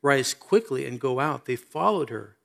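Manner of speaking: measured, solemn Bible reading; scripture reading. Acted. Preacher reads the Lazarus story to the congregation, solemn scripture reading. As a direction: read the passage out soberly to listeners.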